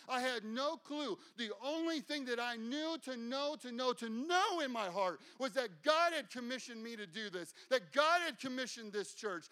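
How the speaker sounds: sermon at full force; fiery preaching. Acted.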